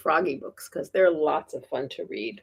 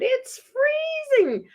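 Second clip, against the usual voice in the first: shouted. Acted. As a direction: yell it into the stethoscope. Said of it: "shouted into it".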